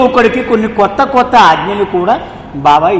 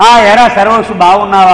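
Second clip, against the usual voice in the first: calling out from afar; 5 dB louder than usual. Retold or imitated. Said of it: "దూరం నుంచి అరిచాడు".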